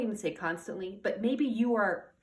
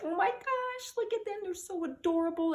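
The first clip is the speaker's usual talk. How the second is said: put-on much higher, cooing over a cute toddler; baby-talk gushing, pitched way up; adoring coo; 10 semitones higher than usual. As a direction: gush like a doting parent at a little one. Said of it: "and like".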